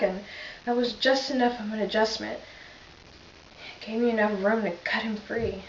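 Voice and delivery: lightly voiced police officer, understated grief; a hint of a shaken officer reliving the scene; Reggie Flutie monologue. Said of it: "I will be playing Reggie Flutie".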